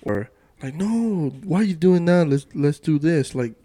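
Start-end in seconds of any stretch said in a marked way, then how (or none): 0.8-3.3 higher, louder mock protest; imitated objection. Speaker voicing people who disagree with his goal, higher and pushy. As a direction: play someone talking a friend out of it.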